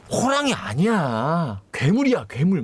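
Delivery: drawn-out mock-exasperated correction; insistent retort. Witness correcting the cop about the monster, insistent. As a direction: retell an indignant witness setting someone straight.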